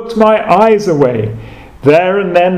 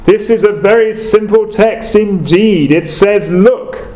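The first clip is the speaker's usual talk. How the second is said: put-on broad Essex accent; 4 semitones higher than usual. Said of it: "in his broad Essex accent".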